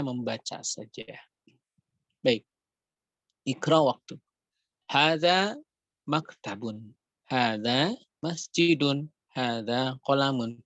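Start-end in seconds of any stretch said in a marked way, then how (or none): 3.5-10.6 slow, deliberate Arabic reading for students to follow; slow drill reading. Shown as a demonstration. Teacher reading the Arabic drill aloud for students, slow and clear. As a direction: read each word out slowly like a model for the class.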